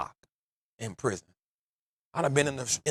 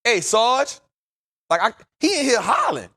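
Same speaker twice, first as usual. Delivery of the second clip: mock calm call; 9 semitones higher, 6 dB louder than usual. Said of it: "I gotta say this with the calmest voice".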